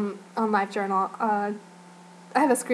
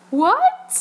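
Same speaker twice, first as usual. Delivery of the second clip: a much higher, louder confused what; startled what; 10 semitones higher, 5 dB louder than usual. Retold or imitated. Jin hearing the dancers' joke, startled confused what. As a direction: blurt it, caught off guard. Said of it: "really surprised look on his face".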